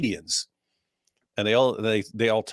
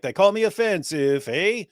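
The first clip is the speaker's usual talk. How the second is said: raised, sing-song mock Canadian rap lines; mock Canadian rapper; 7 semitones higher than usual. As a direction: ham up a Canadian accent with eh. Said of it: "You call the song that, eh?".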